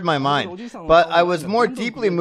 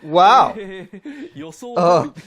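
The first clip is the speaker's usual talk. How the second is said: surprised laugh. Real, not acted. Surprised by the result.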